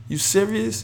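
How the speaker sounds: high-pitched disbelieving question; shocked at the price; incredulous. Real, not acted.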